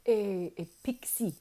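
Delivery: accented wizard impression, lightly voiced; a hint of the accented mentor; imitated wizard. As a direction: gently explain in an imitated accent. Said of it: "he was like".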